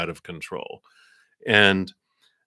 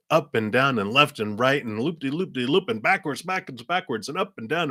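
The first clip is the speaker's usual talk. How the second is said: higher, swooping up and down; roller coaster sing-song; 6 semitones higher than usual. Retold or imitated. Tarot reader describing a roller coaster of emotions, dizzy sing-song. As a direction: rattle it off like loops on a ride.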